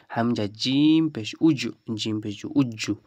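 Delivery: উজ্জু built slowly from হামজা জিম পেশ উজ, doubled জ; slow spelled drill. Shown as a demonstration. Teacher slowly spelling উজ্জু for Quran students. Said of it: "এভাবে করে চর্চা করুন".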